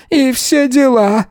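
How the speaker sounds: high, slow cry of an insult; shouting. A narrator's reading. Yana shouting an insult at the officer, high and slow. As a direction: hurl the insult.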